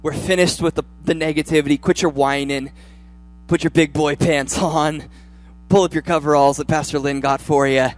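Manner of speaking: self pep talk. Retold or imitated. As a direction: give yourself a firm, rising pep talk. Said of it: "I have to say to myself".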